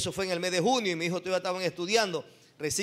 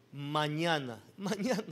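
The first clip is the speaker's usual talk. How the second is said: mock stalling; 4 semitones lower, 6 dB quieter, slower than usual. Retold stalling excuse, laughing.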